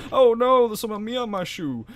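loud, high wail in mock Black American accent; put-on Black American accent. Player voicing a shot goon, wailing mock Black American accent. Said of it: "made their voice black".

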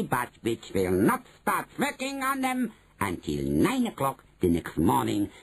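emphatic, swooping witch voice. Acted. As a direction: build up the difficulty with relish. Witch explains hard part.

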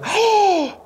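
high shocked gasp, mock scandalised. Preacher mimics a scandalised listener, shocked high gasp. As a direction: gasp as if the audience is appalled.

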